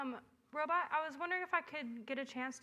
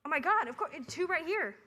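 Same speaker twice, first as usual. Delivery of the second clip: excited shout; 5 dB louder, faster than usual. Acted. Eager loud reply.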